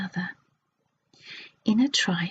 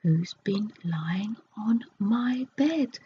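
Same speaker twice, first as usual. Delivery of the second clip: growly voice; slower than usual. Acted. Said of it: "in a growly voice".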